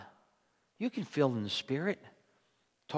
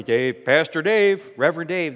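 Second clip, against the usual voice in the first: teasing mockery; 7 dB louder than usual. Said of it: "they're making fun of me".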